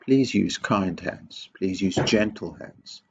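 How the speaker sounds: slow, kind request; slow, patient coaxing of a child; kindly. Acted. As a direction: ask gently, taking your time. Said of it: "if we said to them kindly".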